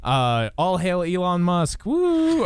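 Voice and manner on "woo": high excited whoop; cheering woo. Pretend. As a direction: cheer like a fan. All hail Elon Musk cheer.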